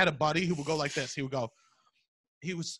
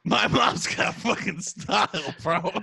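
mock defensive boast; 4 dB louder, slower than usual. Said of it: "I go".

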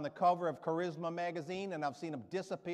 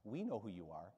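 very sweet; 6 semitones lower, 8 dB quieter than usual. Retold or imitated. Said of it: "very sweet, she says".

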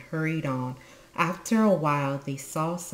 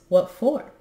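high, friendly question; raised, interested query; 8 semitones higher, 7 dB louder than usual. A narrator's reading. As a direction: ask with kindly curiosity. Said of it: "in a friendly voice".

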